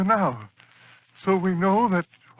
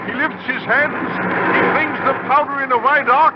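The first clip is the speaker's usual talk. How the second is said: rising excitement; 4 semitones higher, 4 dB louder than usual. Acted. Narrator watching monster climb the hill.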